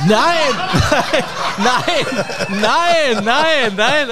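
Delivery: repeated astonished nos, breaking into laughter; real disbelief. Real, not acted. A guest hears his host's birth year, shouting in disbelief.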